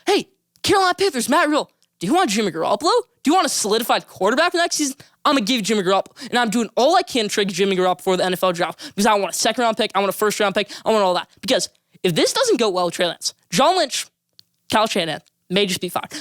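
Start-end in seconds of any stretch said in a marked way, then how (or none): 0.1-11.3 a lightly acted pushy GM sales pitch; pitching a trade. GM pitching Garoppolo to the Panthers, eager pushy sales pitch. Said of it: "I'm saying".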